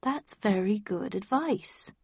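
slow and deliberate; slowly. Acted. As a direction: take your time over each word. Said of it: "I said slowly".

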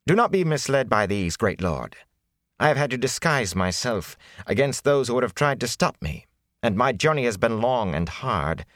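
a hint of a smooth, oily flatterer; smooth it over like a courtier; sleek and oily. Prisoner flattering the great lord, lightly sleek and oily. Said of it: "His tone became sleek and oily".

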